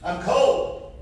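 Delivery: pleading prayer. Retold or imitated. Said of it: "And I said".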